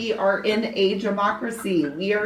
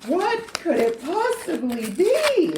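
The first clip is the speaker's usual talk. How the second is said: mock suspense; 7 semitones higher, slower than usual. Mock suspense opening envelope.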